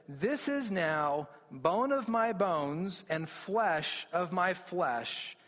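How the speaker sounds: slow, lingering recital of a love poem; romantic poetry reading. Retold or imitated. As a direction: read it like a tender love line, unhurried. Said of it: "this is actually very romantic Hebrew poetry".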